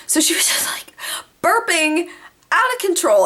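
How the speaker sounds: giggly whisper. Retold or imitated. Mom burping in the car.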